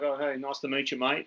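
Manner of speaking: imitated bogan Aussie greeting; casual broad Australian mate-speak; thick Aussie accent. Australian punter greeting the radio booth, thick Aussie accent. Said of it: "thick Aussie accent".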